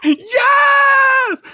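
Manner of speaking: high, laughing yes, slowing down; laughing hard. Real, not acted. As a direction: laugh through the words. Laughing at the joke.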